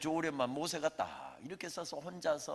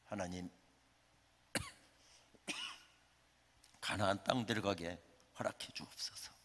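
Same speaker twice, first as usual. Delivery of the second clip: tearful prayer; 6 semitones lower, 5 dB quieter than usual. Acted. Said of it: "눈물 젖은 기도가".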